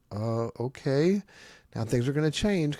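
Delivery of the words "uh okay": put-on puzzled child.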